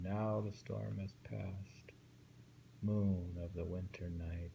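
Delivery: slow, hushed recital of a haiku; poem read slowly, almost breathed. Acted. Reads haiku aloud, slowly.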